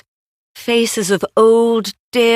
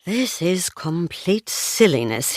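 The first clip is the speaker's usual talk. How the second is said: softer, half-whispered grumble; a touch of a whisper, still voiced; mild hushed mutter; 5 dB quieter than usual. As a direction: say it under your breath, embarrassed. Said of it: "he whispered".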